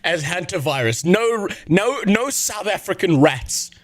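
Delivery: mock the minister's solemn denial. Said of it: "my health minister comes out and he's like".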